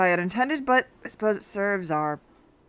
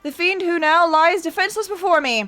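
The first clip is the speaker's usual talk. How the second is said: grandiose accusation, a touch hammed-up; lightly voiced detective. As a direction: unmask the thief with relish.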